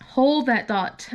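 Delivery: slow down on Hold that thought; slow emphatic. Shown as a demonstration. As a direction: Hold that thought, said slowly, each word stretched.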